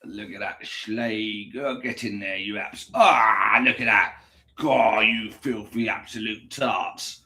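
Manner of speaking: leer at the food like a seducer; mock lewd. Lewd talk to the yogurt.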